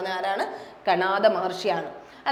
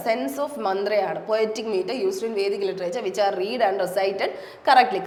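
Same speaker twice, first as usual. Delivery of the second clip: English words read slowly, one by one; slow dictation reading; much slower than usual. Shown as a demonstration. Teacher reads etymology definition to students, slow dictation.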